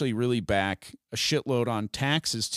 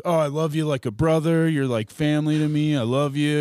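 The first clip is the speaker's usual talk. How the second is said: louder, gushing fake-sweet voice; mock gushing affection; 3 semitones higher, 6 dB louder than usual. Mocking the partner's fake affection, gushing and loud. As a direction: lay the fake brotherly love on thick, loud. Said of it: "this is a person that's like".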